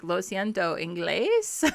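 "Lo siento, inglés" put as a bare question; question inflection. Shown as a demonstration. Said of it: "with a question inflection".

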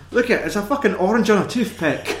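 high, quick mock-parent jeer. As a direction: imitate a film dad ridiculing his kid, amused. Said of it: "the parents making the fun".

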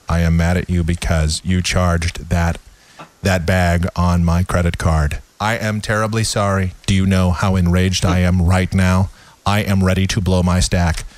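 robotically calm mock anger; emotionless arguing partner. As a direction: announce rage with zero emotion. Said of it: "that's some communication right there".

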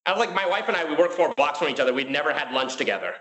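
usual speaking voice

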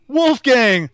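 high, loud shout imitating the movie line; mock yell. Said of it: "he just yells".

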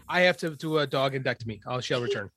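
normal talking voice

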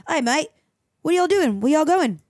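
lightly put-on Australian accent; Australian surfer. Drunk Australian stumbles into the group, mock Aussie accent. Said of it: "this weird Australian surfer".

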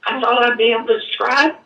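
real tears breaking through a laugh; tearful laugh. Real, not acted. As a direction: choke up and laugh at yourself. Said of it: "without crying, but I can't".

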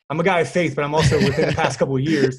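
real laughter through the words; chuckling while admitting it; laughing. Real, not acted. Laughing while telling podcast host his faith.

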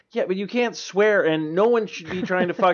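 mock outraged telling-off; scolding objector. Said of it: "And they're like".

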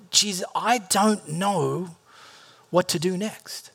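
slow, fading to a whispered groan; helpless prayer. Retold or imitated. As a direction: give up mid-prayer, voice dying away. Desperate prayer of confusion.

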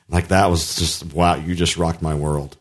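low, slow mock awe; wife's praise. Feeding his friend the wife's praise, slow and low. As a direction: imitate a wife gushing in a low, unhurried voice. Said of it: "have to have Rosemary say".

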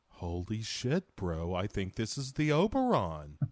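mock-awestruck bro; Mark Wahlberg. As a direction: draw it out in dim realization. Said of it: "Marky Mark is finally like".

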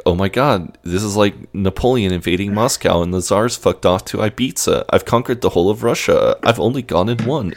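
excited retelling, pitch climbing towards the end; really excited. Retold or imitated. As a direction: let mild triumph build through the quote. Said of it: "he's really excited about this".

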